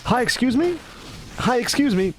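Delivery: lifted, gentle polite greeting. Shown as a demonstration. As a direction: raise the voice to sound harmless. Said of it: "So you gotta be".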